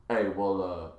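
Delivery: low, soft, mumbly retold caller; hushed phone request. Friend phoning late to ask for the door chain off, hushed.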